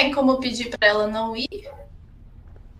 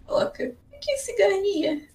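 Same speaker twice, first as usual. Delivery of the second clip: squeaky high voice; high character voice; 12 semitones higher, 3 dB quieter than usual. Acted. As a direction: pitch it way up, softer.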